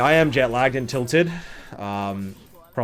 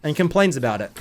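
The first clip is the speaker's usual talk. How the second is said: hammed-up ancient master reciting a saying; mock wise proverb; 6 semitones higher than usual. To viewers, mocking a privileged streamer with a lofty proverb.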